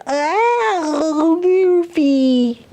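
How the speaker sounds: high character exclamation. Acted. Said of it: "what's he say".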